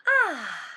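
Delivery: satisfied sigh of relief; contented sigh. A narrator's reading. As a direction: sink into the bed with an ahh. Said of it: "said Goldilocks".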